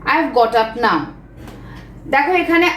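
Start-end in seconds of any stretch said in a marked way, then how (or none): 0.1-1.0 very slow, word by word for copying; slow dictation. Shown as a demonstration. Teacher dictating to students, very slow and clear. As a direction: spell it out slowly so students can write. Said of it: "প্রথম যে সেন্টেন্সটা আমি বললাম".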